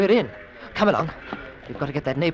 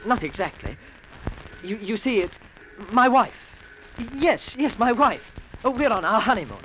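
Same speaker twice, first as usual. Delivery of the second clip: higher, flustered improvised excuse; flustered fib; 5 semitones higher than usual. Acted. The Englishman invents a wife for the general, flustered. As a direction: make up the story on the spot.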